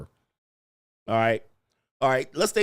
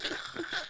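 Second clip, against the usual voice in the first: soft, voiceless put-on snicker; sniggling; 11 dB quieter than usual. Shown as a demonstration. Man looking at his phone, pretend sniggling. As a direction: snicker to yourself over your phone.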